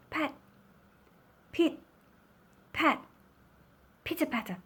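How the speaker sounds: expressive picture-book reading with suspenseful pauses; story narration. A narrator's reading. First raindrops hit the iron roof, hushed-expectant storytelling. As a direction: space out the pitter-patter like single drops.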